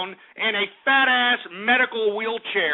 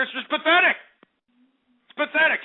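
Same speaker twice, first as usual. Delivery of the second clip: disgusted; 6 semitones higher, faster than usual. Acted. Disgusted outburst.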